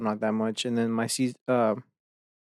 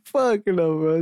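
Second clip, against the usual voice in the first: higher, louder mock "fuck no"; retold emphatic refusal; 6 semitones higher, 5 dB louder, slower than usual. Brother rejecting the keyboard with a higher, louder mock refusal. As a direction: ham up the brother's blunt rejection. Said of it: "He was like".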